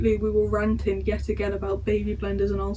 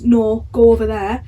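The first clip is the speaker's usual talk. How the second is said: firm raised order; bossy order; 6 dB louder than usual. Retold or imitated. Staff sergeant ordering the cadet away, firm raised voice. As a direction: shoo them away with a loud firm order.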